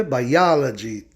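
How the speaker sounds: "biology" slowly, stressed on the O; antepenultimate stress. Shown as a demonstration. Teacher giving English after Portuguese, slow "biology" stressed on O. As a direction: stretch "biology", landing on bi-O-logy. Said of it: "De proparoxítonos".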